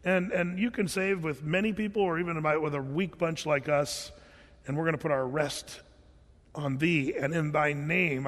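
calm prayer. Retold or imitated. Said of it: "very calmly says".

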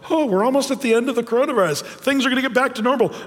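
imitating naive optimism; mock hopeful. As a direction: gush like it's nearly over. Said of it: "some of us feel".

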